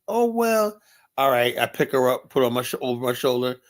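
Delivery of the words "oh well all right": put-on high, light voice of the girl giving up. Girl conceding to the bouncer in a high voice. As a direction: sigh it out like a caught kid.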